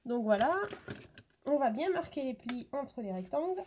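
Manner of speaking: parole coupée par des hoquets; avec le hoquet. Real, not acted. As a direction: hoquets entre les mots. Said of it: "j'ai le hoquet". (qui a le hoquet en parlant)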